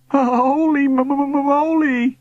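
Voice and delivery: high, long-drawn quavering stutter; stammering moan. A narrator's reading. Bully as ghost sweeps past, moaning. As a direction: moan it out, stuck on the M. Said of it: "Billy moaned".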